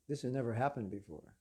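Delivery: low, subdued puzzlement; acted hushed bewilderment; stunned disbelief. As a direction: say it low and softly, taken aback. Stunned messengers, first low take.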